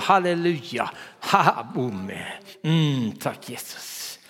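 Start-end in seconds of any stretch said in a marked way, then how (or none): 3.1-4.2 slow, whispered thanks to Jesus. Real, not acted. Pastor praying quietly in front of the congregation, whispered thanks. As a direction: breathe it as a prayer. Quiet prayer after hallelujas.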